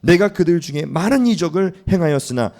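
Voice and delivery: loud, stern rebuke, slowing at the end; God's anger. Acted. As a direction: rebuke a faithless people. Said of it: "화가 나시는 하나님". (진노하신 하나님이 백성을 꾸짖듯 크고 엄하게)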